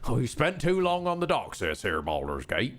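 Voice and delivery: lightly voiced old sea dog; a hint of a salty fisherman. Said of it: "I'm just doing a fisherman kind of voice".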